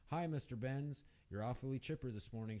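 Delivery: curious, quick teasing lilt; inquisitive. Acted. A quick, curious, teasing question. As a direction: cashier teasing a cheerful customer, quick and curious. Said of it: "she said inquisitively".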